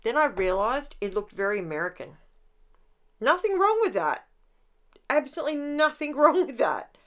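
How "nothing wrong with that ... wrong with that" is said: high, bright ironic insistence, laughing; high ironic nothing wrong; mock reassurance. Real, not acted. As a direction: protest too much, tongue in cheek. Ironic reassurance about American look.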